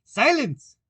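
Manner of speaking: high, loud cackling order; cackled out. A narrator's reading. King cackles to the court for silence. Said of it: "cackled out".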